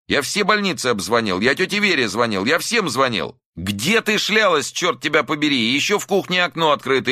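high, frantic scolding; angry scolding. A narrator's reading. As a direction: scold her in frightened anger. Son berates mother.

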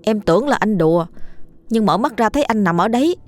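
mildly agitated, stammering account; nervous retelling with stumbles; scared insistence. Acted. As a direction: plead to be believed, faltering as you go. Frightened boy insists on what happened.

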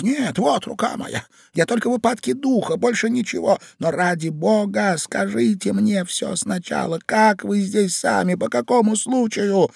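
earnest pleading. A narrator's reading. Ivan offering his hand to the stranger, imploring.

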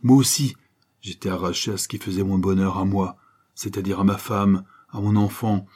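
lightly voiced proud ex-convict lecturing; stern reproach. Kerjean to the banker, a stern moral reproach. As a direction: reproach him with rising force. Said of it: "apostrophait le banquier".

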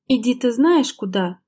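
slow, mildly angry brush-off; angry retort. Acted. Wife angrily dismissing husband, mildly bitter. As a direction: throw the words at him. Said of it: "зло бросила Лера".

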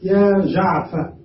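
يا جعفر drawn out slowly, word by word; slow, careful classroom demonstration of "يا جعفر"; slow demo. Shown as a demonstration. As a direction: say "يا جعفر" slowly and deliberately, like a teacher showing the form. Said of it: "فتقول".

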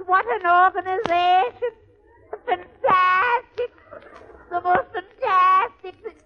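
high, amazed Irish brogue, marvelling; wide-eyed greenhorn in a thick Irish lilt; Irish accent. Acted. Irish newcomer to Sullivan's new land, high amazed brogue. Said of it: "this is an Irish story".

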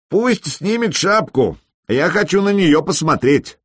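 a hint of drunken swagger; 1 drunk brash viking. A narrator's reading. Drunk Viking challenges the host.

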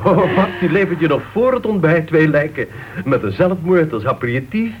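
chuckling while teasing about her gruesome plots; laughing mockery. Teasing a fellow club member about her murder plots, laughing. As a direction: laugh it off, poking fun at a colleague. Mocking the crime writer among members.

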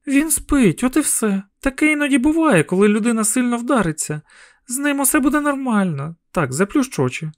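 calm him down, keep it light; soothing mother. A narrator's reading. Mother calming frightened child.

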